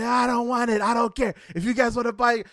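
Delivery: loud, high indignant refusal; angry shout. Retold or imitated. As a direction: snap it like he's fed up. Guide angry about the price.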